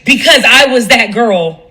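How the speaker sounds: slow, owning it; sincere admission. Shown as a demonstration. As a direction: say it like a confession. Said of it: "I would like for you to say".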